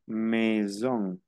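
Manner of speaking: MAISON said slowly as "meh-zon"; French pronunciation demo. Shown as a demonstration. Teacher showing students how this word is pronounced, French pronunciation demo. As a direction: say MAISON with AI as a plain Spanish E. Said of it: "voy a pronunciar esta palabra".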